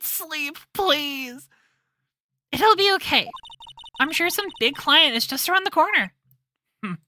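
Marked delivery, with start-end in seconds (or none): 2.5-5.6 cheerful Maya. Acted. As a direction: brighten him up. Maya's line, cheerful.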